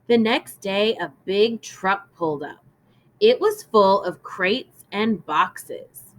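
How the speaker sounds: clear, measured storybook reading; gentle read-aloud for a class; reading to children. Acted. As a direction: read it aloud to young listeners.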